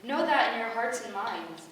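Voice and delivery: a goddess beaming at her chosen; proud goddess. Acted. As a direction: swell with pride over her children. Goddess addresses her heralds proudly.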